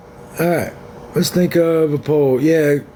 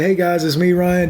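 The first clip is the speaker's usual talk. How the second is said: video intro; 3 semitones higher than usual. Shown as a demonstration. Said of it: "my videos where I say".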